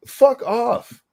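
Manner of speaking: high loud outburst; defiant shout. Acted.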